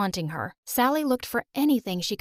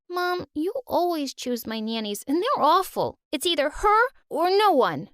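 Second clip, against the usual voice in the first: put-on defiant little girl; 7 semitones higher than usual. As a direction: stand up to mom, shrill and stubborn. Girl defies mom over nanny.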